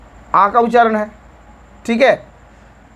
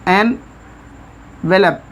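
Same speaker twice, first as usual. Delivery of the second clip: very slow, drawn out; slow demo; 2 semitones lower, much slower than usual. Shown as a demonstration. Teacher spelling out a word for students, slowly. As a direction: stretch एनवेलप out slowly, sound by sound. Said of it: "उसी तरह हम लिखा".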